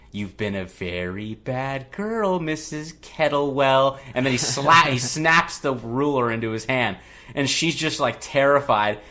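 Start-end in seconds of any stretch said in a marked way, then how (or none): 0.1-4.0 slow, lightly voiced menacing doll; drawn-out mock sinister taunt; Chucky taunt. Chucky taunts the teacher with a ruler, slow mock menace. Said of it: "he says, quote unquote".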